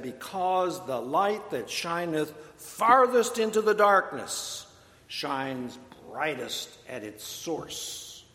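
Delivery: put-on an old bishop's slow Virginia accent, leaning on darkness. The bishop answers a startled parishioner in a Virginia accent. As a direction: lay on a measured Virginia accent for the bishop's punchline. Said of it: "in that deep Virginia accent".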